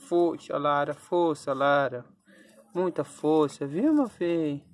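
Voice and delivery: rally her through the labour; loud coaching cheer to a dog in labour. Real, not acted.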